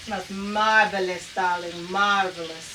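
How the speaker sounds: slow, drawn-out mock-glamorous marvelous; mock posh. Cook lightly plays a posh diva over the steak. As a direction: lightly play a grand dame savoring it. Posh put-on praise of smell.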